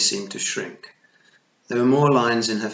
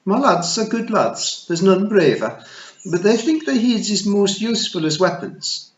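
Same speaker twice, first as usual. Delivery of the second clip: high, loud tiny pixie matriarch; a tiny Scots fairy queen, pitched high; Kelda voice; 10 semitones higher, 8 dB louder than usual. Acted. Kelda explains her sons.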